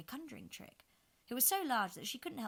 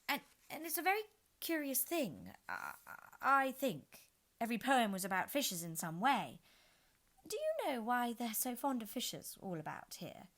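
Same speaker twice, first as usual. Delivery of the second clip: put-on high, louder stammering girl; nervous Alice; 6 semitones higher, 7 dB louder than usual. A narrator's reading. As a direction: fill the silence anxiously.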